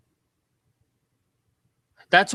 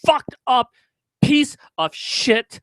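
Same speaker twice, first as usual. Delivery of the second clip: screaming insults, much higher and louder; furious shout; 7 semitones higher, 5 dB louder than usual. Real, not acted. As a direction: explode with real rage. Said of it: "I'm just so fucking angry".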